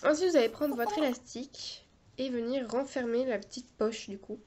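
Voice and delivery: talking with a cold, nose blocked. Real, not acted. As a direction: speak through a stuffy nose. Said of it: "en plus je parle du nez".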